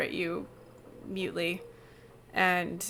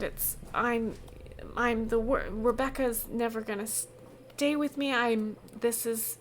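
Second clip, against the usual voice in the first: guilty Tina; 3 semitones higher than usual. Acted. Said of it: "And she says".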